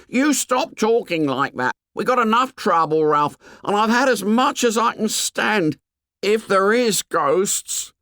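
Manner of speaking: frightened. Acted. Piggy frightened, high.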